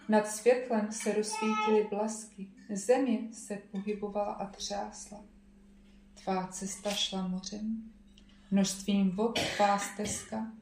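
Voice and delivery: psalm reading. Acted. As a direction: read the psalm out with weight. Reads a psalm aloud.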